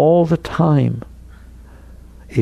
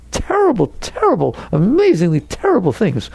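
TERRIBLE starting high then falling, repeated; emphatic; 4 semitones higher than usual. Real, not acted. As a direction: hammer each "terrible" for emphasis. Dramatizing awful outside events.

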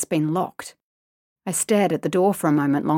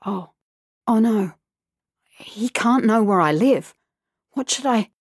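sudden frightened whisper; panicked whisper; 4 semitones higher than usual. A narrator's reading. Girl realising he'll learn her home, panicking. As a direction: gasp it out in fear.

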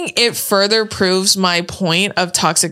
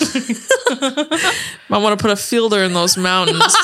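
laughing movie quote. Retold or imitated. Quoting a movie line.

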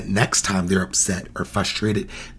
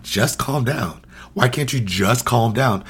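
judgy; slower than usual. Shown as a demonstration. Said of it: "it's still judgy".

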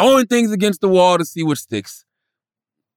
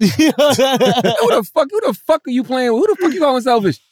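a higher, hammed-up indignant wife; mock angry wife; 6 semitones higher than usual. Wife snapping back at her husband, mock outrage. Retelling wife's angry comeback.

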